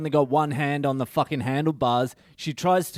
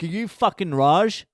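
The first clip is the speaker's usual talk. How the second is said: higher-pitched, exaggerated challenge with a rising end; mock confrontational question; 4 semitones higher, 3 dB louder than usual. Delivery driver going up to Raj, mock confrontational. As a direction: demand it with hammed-up attitude. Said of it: "I didn't say it like that".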